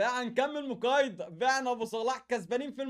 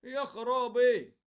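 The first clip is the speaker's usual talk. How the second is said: stunned; 3 dB louder, much slower than usual. Real, not acted. Shocked at pack rewards.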